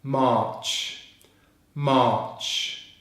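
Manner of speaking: "March" with long "ah", silent r, ending in ch; one syllable. Shown as a demonstration. Teacher putting the month together, one-syllable "March". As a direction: say "March" joined up, vowel stretched. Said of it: "all together in one syllable".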